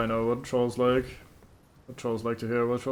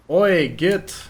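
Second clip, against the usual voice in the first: louder, rough call across the field; mock yell; 5 semitones higher, 8 dB louder than usual. Player hails the troll from afar, mock yelling. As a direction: shout to grab the troll's attention. Calling out to a game enemy.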